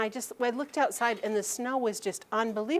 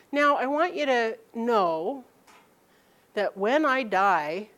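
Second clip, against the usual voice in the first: solemn pronouncement; 2 semitones higher, slower than usual. Retold or imitated. Mother's solemn deathbed-style instruction.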